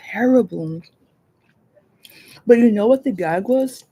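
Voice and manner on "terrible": whispered. Real, not acted. Dramatic whisper for effect.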